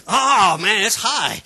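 a loud startled oh; sudden loud surprise, then a laugh; startled exclamation. Retold or imitated. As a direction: burst out in surprise as the gear catches. Truck jumps into high gear.

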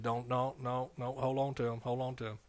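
a gentle, firm hush; God's quiet command. Retold or imitated. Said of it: "God said".

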